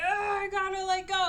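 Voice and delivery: mock distressed whine. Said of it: "And he's like".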